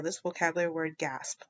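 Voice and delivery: soft whispered aside. Shown as a demonstration. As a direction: breathe the words out quietly. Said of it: "unvoiced whisper".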